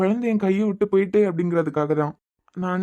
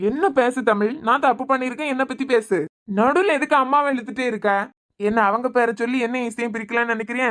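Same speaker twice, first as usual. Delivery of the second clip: higher, heated demand to leave his mother out; angry rebuke; 4 semitones higher than usual. Acted. Husband to wife, defending his mother, pitched-up angry voice. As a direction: snap back at her, rising anger.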